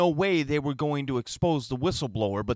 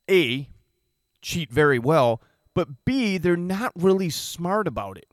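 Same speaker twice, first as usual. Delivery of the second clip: rising louder, punching words; heated emphatic rant; 4 semitones higher, 4 dB louder than usual. Real, not acted. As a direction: get fired up and hammer it.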